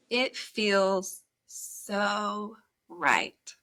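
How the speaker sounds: slow, sultry reading of the lyrics; breathy seductive lyric read, drawn out; sultry narrator. Shown as a demonstration. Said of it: "See if I put it in my sexy voice".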